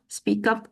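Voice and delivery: "speak up" said as one joined word, spea-kup; linked words. Shown as a demonstration. Trainer repeats the linking model for teachers, "speak up" joined. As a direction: glide from "speak" into "up" without a break. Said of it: "like this".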